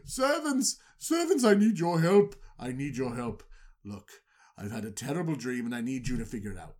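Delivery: a lightly voiced regal pharaoh; mock-royal plea for help. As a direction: pharaoh summoning his magicians in a put-on voice. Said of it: "let me put on my pharaoh voice".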